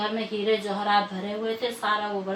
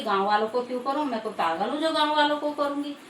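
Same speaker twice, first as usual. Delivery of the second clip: fast, higher scoffing retort; scornful refusal; 4 semitones higher, faster than usual. Acted. Greedy sister-in-law refusing Baba's feast, scoffing. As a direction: scoff at the very idea.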